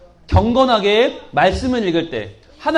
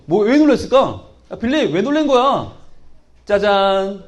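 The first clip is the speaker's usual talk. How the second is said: usual speaking voice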